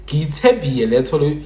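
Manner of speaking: Baphuti-style sample sentence; Baphuti pronunciation. Shown as a demonstration. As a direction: demonstrate how Baphuti speak, y replacing l. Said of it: "Baphuti people will say".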